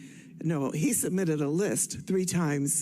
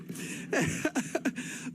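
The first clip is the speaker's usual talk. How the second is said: soft breathy laugh; 7 semitones higher, 5 dB quieter than usual. Real, not acted. Laughs at own story.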